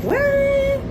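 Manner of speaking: a very high, squeaked "What?"; mock the coworker's stunned disbelief; imitating a coworker's high shocked squeak. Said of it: "She's like".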